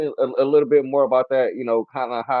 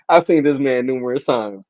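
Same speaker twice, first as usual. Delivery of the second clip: ordinary talk, nothing marked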